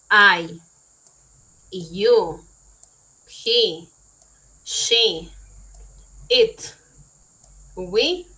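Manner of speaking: "I, you, he, she, it, we" each said alone, loud and slow; teacher's one-word pronunciation drill; clear pronoun drill. Shown as a demonstration. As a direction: model each pronoun for learners to repeat. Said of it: "Simplemente debes leer tal cual está escrito en el paréntesis".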